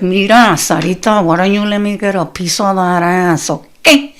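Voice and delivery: mock menacing abuela; Spanish-accented threat to the mom; grandmother voice. Grandmother threatening her daughter over the kids, mock menacing. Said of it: "And she was just like".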